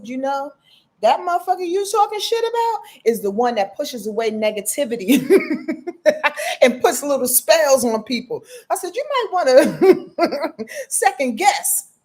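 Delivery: retold warning.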